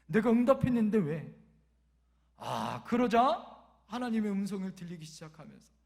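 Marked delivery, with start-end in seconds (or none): 0.1-1.3 suddenly louder mock retort; acted divine comeback, punched out; voice of God. God answering the complaining father, loud retort. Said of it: "하나님의 음성이 들리는 거예요".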